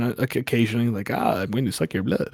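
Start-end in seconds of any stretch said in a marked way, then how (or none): 1.1-2.3 lightly voiced cheesy Dracula accent; corny movie Dracula accent, lightly done. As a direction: put on a hint of Dracula's accent. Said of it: "Dracula accent".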